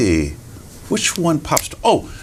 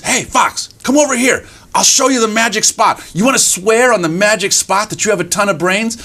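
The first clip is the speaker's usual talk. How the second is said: high, eager little mouse voice; scheming mouse; 8 semitones higher than usual. Acted. Mouse lures fox to the magic spot, eager. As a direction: lure him over, pitched high. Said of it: "So mouse says".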